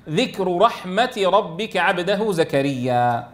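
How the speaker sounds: slow, measured recitation; Quran recitation. Shown as a demonstration. Teacher reciting the verse to students, slowly measured.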